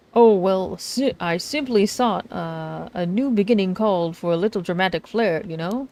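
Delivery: hammed-up showman introducing himself; dramatic self-introduction. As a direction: present yourself with grand flair. Voices dramatic author Arnav.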